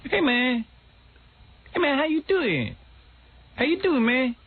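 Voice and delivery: high, hammed-up street slang voice; mock pleading kid in slang; imitating teen slang. Bullied kid begging Irvin in put-on slang. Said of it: "talk black when I was in school".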